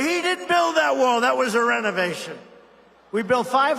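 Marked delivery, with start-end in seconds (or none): 0.0-2.4 high, loud sneer at He didn't build that wall; mocking critics. Mimicking critics who dismiss his wall, high scoffing jeer. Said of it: "they say".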